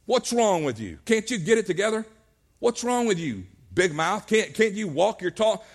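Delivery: acted disgusted reproach; mock disgust. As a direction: scold as if fed up with a failing follower. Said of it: "with this sigh of disgust".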